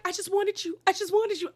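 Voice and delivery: high, whiny imitation of sobbing; mock crying. Mimicking Julia crying to her friends, hammed-up sobbing. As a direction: parody Julia's tearful plea. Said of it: "Julia is now crying".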